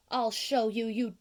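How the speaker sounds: menacing whisper. Acted. Lorax threatens Onceler.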